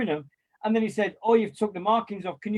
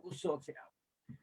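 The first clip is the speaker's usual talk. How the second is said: much softer, slower throwaway repeat; faded echo; 3 semitones lower, 14 dB quieter, slower than usual. Retold or imitated. Echoing the club's empty promise in a much softer, slower mutter. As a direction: let it die away mockingly.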